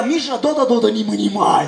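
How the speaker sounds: mock Russian mother's scolding gibberish; אמא רוסייה כועסת. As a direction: imitate a stern Russian mum telling off her son. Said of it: "אבל יש שם כעס". (חיקוי אמא רוסייה נוזפת)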